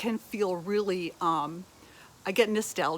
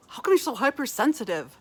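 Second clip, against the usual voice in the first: higher, quick scornful jab; mocking critic; 4 semitones higher, 3 dB louder, faster than usual. Mocking the sensitive listener, a scornful critic. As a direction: sneer it like someone who doesn't get you.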